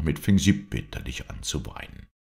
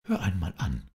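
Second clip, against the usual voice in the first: mildly cross, raised pitch; cross princess; 4 semitones higher than usual. Acted. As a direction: demand attention with understated anger. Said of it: "Nun ward die Prinzessin im Ernst böse". (leicht verärgerte Prinzessin)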